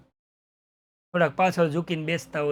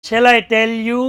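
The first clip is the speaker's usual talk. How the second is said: slow menace; 3 semitones higher, 8 dB louder, much slower than usual. Retold or imitated. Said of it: "villain menacing question".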